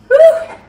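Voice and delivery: loud, high breathless woo with a laugh; breathless whoop. Real, not acted. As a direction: whoop out after the lift. Exhales after heavy lifting.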